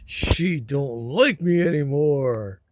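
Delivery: slow, drawn-out mock complaint; whiny complaining. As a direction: whine it slowly, without wailing. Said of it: "This is the whiny, complaining".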